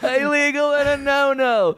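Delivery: high, far-off courtroom plea voice; honeyed southern lawyer drawl. Pretend. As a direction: plead innocently to the judge. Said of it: "This is me after killing that couple, in the courtroom".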